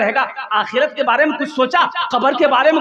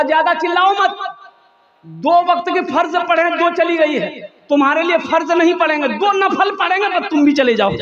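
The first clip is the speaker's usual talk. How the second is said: mock-angry scolding, higher; 6 semitones higher than usual. Villager scolding the crying calf, mock-angry. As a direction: scold the calf, half-joking. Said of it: "तो इसको गुस्सा आया".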